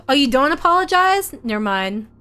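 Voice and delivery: mock surprise. Real, not acted. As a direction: act scandalised at the refusal. GM reacts to players refusing.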